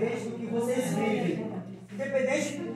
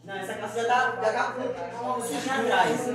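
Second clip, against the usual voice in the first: mother spotting a stain. Retold or imitated. Mother points out stain, laughing.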